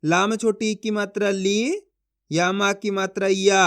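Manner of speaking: slow, careful teacher demonstration; slow down and show each step; slow demo. Shown as a demonstration. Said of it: "देखो किस तरीके से है।". (धीमे-धीमे समझाकर दिखाना)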